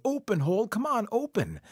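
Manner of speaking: high-pitched, insistent yell. A narrator's reading. Coyote shut inside the tree, yelling at the hole. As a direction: plead at the top of the range. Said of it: "He started to yell".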